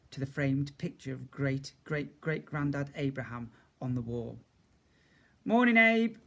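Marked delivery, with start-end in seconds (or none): 5.4-6.2 bright, loud, high hello; cheery greeting. A narrator's reading. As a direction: greet the picture with gusto.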